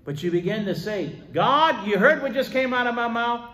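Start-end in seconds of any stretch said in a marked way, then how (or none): 1.3-3.5 loud, high-pitched cry to God; urgent appeal. Acted. Believer asking God about their words, urgent appeal. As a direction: call out high and hard, pleading to be heard.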